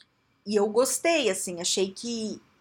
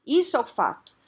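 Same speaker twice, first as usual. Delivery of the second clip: ordinary delivery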